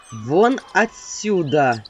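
low, slow, menacing command; a drawn-out threatening order; scary shout. Acted. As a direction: chase her out with a terrible voice. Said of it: "страшным голосом крикнула я".

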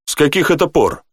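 taken aback; surprised. A narrator's reading. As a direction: ask it in real surprise. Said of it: "удивился Рэй".

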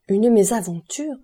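shocked baronne repeating the word; indignant exclamation. A narrator's reading. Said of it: "s'écria la baronne".

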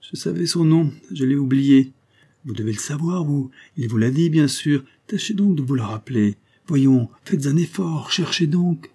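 high, urgent, feverish pressing; active, almost menacing. A narrator's reading. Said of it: "redevenue soudain active et presque menaçante".

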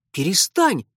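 put-on loud, sharp girl outburst; flaring up. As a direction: snap back fiercely. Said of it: "тут же взвилась Фи".

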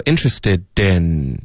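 INTERESTED IN with a long final N, tongue on the palate; tongue-tip N. Shown as a demonstration. Teacher correcting a nasal ending, INTERESTED IN with held N. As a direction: hold the N at the end of IN. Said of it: "这个N的音".

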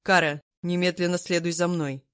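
mildly sharp command; sharp order. Acted. Emperor ordering Kara to follow, mildly sharp. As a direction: cut her off with an order. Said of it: "Вэйдун резко приказал".

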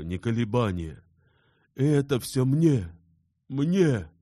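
high, loud, slowing emotional rush; Insarov, moved by the Russians' kindness, high and loud; overwhelmed outburst. Acted. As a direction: pour it out, overwhelmed by their kindness.

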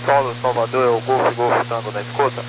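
distant radio call; crackly military radio. Real, not acted. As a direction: call the tower over static. Pilot calling tower by radio. (chamada de rádio com chiado)

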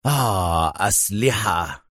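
softened, satisfied exclamation; relieved Adham. A narrator's reading. Adham spots makeshift weapons, quietly relieved. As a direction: let relief out softly on the sigh. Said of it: "فهتف أدهم في ارتياح".

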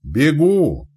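loud, high call back; urgent junior's cry; hurried shouted reply. A narrator's reading. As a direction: yell that you are on your way. Boy answers the shouting commander.

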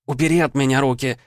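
put-on a read-aloud yell from the girl. A narrator's reading. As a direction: scream at him to let go. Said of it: "внезапно заорала она".

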